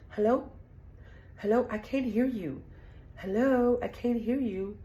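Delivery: mock caller yelling hello; calling out on a bad line. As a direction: shout into a phone that won't connect.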